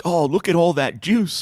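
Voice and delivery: slow, drawn-out tough soldier quote; Gears of War soldier voice. Retold or imitated. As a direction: ham up a gruff soldier line. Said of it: "like, Gears of War ones".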